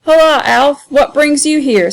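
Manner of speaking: high, loud greeting across the room; hearty hail. Acted. Young exquisite hailing Alf across the hall, high and loud. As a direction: call out to a friend.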